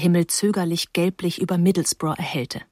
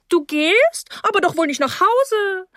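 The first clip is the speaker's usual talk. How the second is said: much higher, mock-shocked hostess voice, lightly amused; laughing; 11 semitones higher, 3 dB louder than usual. A narrator's reading. Hostess to a guest who wants to leave, laughing. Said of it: "sagte Misses Rose lachend".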